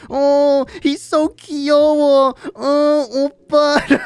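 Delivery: high, cooing fangirl imitation; mock swooning girls. Friend mimicking the girls crushing on him. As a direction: play the girls gushing over him. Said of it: "they were like".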